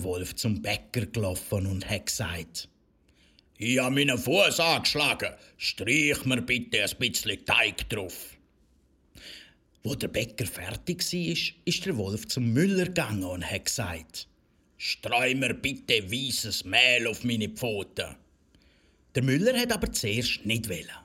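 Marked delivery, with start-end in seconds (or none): 3.6-8.4 a hint of the sly wolf. Wolf asking the baker for dough, lightly voiced. 14.8-18.2 slow, lightly voiced wolf request. Wolf asking the miller for flour, slow.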